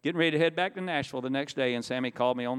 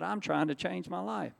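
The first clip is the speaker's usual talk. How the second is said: higher-pitched, earnest insistence; earnest protest; 4 semitones higher than usual. Retold or imitated. Telling bandmates he means to change, earnest protest. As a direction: plead to be understood, voice lifted.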